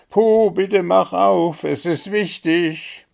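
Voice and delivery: high, loud urgent calls; calling loudly. A narrator's reading. Animals at the door calling loudly for Puh. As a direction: shout it through the door, pleading. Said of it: "lief es lauthals".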